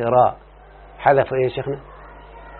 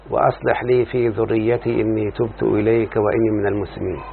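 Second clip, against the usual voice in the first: opening prayer; 2 semitones lower than usual. Acted. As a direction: recite the blessing calmly, devoutly. (دعاء افتتاحي بصوت خاشع)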